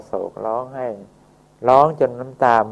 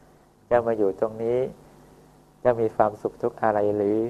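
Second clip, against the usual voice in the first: kind gentle greeting. Acted. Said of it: "แล้วก็พูดทักทายไป".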